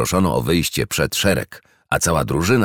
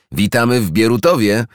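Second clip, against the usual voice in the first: miły głos; 7 semitones higher, 4 dB louder than usual. A narrator's reading. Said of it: "miły głos".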